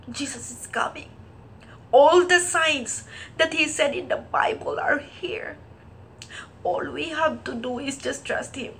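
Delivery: hushed, tear-choked voice; tearful. Real, not acted. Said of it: "And now I'm crying".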